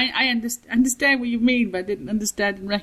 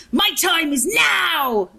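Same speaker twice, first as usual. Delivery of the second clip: Steve Guttenberg; 8 semitones higher, 4 dB louder, much slower than usual. Retold or imitated. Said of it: "like Steve Guttenberg does".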